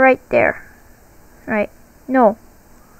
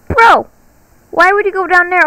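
high shocked call out; disbelieving shout; 6 semitones higher, 4 dB louder than usual. Real, not acted. Teammate runs toward the seeker.

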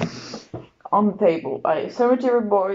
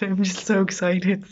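excited secret whisper; 4 dB quieter than usual. Real, not acted. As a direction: breathe it out like a secret. Repeats excitement, then whispers it.

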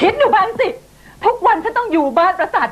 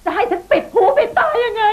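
bitter laugh; 3 semitones higher than usual. Acted. Bitter laugh mid quarrel.

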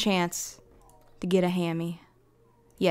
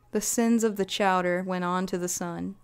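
normal talking voice

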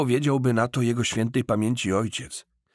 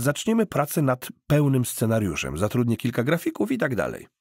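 brisk, higher, upbeat persuasive voice; eager cousin pitching; 5 semitones higher than usual. Acted. Grzegorz sells his cousin the game plan, higher and upbeat. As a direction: sell the dream with easy confidence.

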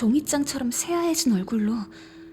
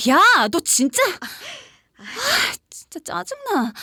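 louder, higher playful scolding; annoyed scolding; 6 semitones higher, 5 dB louder than usual. Acted. Narrator scolding the friend for the prank, annoyed. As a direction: scold the prankster half-laughing.

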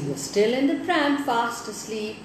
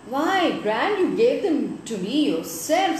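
put-on surprised boy; 4 semitones higher than usual. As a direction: sound puzzled that Gran forgot. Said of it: "said Rolly in surprise".

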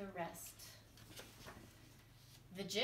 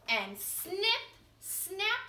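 dramatic snap; 10 semitones higher, 6 dB louder, much slower than usual. A narrator's reading. Fox's jaws snapping shut.

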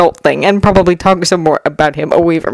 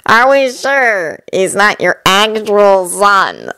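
tired; 2 semitones higher, much slower than usual. Acted.

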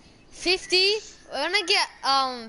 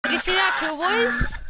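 excited bragging. Real, not acted. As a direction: shout it out, proud of the kill. Brags about a clean kill.

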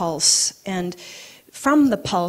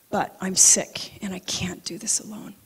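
hushed, emotional prayer; moved, voice sinking away; getting emotional. Real, not acted. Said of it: "I'm getting emotional".

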